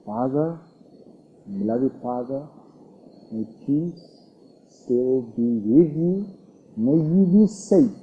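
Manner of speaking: a son answering his father's death threat, soft and tender; gentle, loving reply. Retold or imitated. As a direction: soothe him, softly, without a trace of anger.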